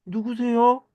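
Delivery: high, startled "who are you". Acted. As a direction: react as if suddenly hit from behind. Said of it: "깜짝 놀라서". (깜짝 놀라서 높은 목소리로)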